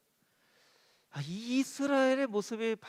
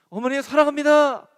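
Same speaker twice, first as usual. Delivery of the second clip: put-on sweet child; 7 semitones higher, 11 dB louder than usual. Child sweetly addresses mother.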